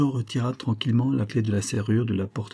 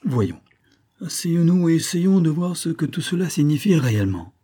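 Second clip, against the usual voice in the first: higher-pitched placating voice; gentle, conciliatory; 9 semitones higher, 4 dB louder than usual. A narrator's reading. Major offering Olivia a chair, gentle conciliatory coaxing. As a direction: coax her lightly into sitting. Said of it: "d'un ton doux et conciliant".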